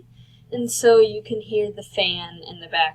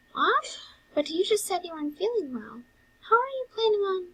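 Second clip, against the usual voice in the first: high, startled character voice; confused brother; 10 semitones higher, 4 dB quieter, faster than usual. Acted. Brother questioning unwell Sans, high and confused. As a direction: protest in a much higher, worried voice.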